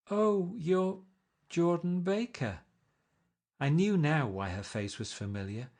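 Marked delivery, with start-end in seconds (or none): 0.1-2.6 surprised recognition. Acted. Nick recognizing Jordan, surprised.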